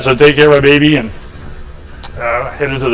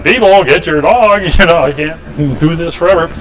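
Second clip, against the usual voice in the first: yelling at neighbors; 4 semitones higher than usual. Retold or imitated. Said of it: "I said, yelling at them".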